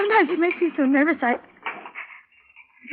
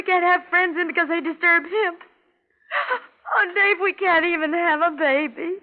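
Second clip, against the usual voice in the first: crying; 5 semitones higher than usual. Acted. Wife crying.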